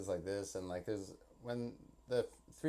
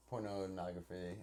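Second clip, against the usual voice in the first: cute line delivery; 2 semitones lower, 5 dB quieter, slower than usual. Retold or imitated. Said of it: "the way that she, like, delivers the line".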